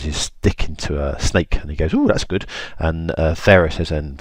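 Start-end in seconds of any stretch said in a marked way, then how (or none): 1.9-2.4 high-pitched "ooh"; light, pitched-up admiration; mock impressed. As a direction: pretend to be impressed. Pharaoh reacts to snake trick.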